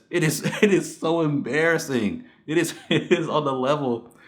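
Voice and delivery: words broken by real laughter; laughing rant. Real, not acted. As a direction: laugh through the disbelief. Ranting, laughing at awful movie.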